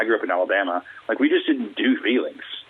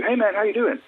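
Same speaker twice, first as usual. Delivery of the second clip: much higher-pitched mock small talk; mock casual greeting; 11 semitones higher than usual. People greeting you in the pandemic, mock casual greeting. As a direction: toss out a high, breezy hello.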